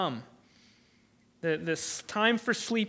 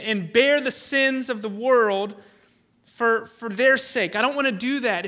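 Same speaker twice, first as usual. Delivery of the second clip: earnest plea; 3 semitones higher, 4 dB louder than usual. Retold or imitated. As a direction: beg the Father earnestly, drawing out the words. Voicing Jesus pleading to Father.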